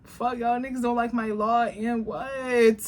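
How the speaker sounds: a hint of a careless ruler laying down the law; voicing the Queen of Swords. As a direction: talk down to everyone as the queen. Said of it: "she like".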